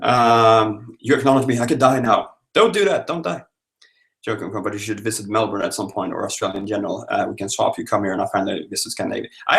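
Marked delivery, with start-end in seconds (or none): 2.5-3.4 mock plea. Mock pleading with viewer.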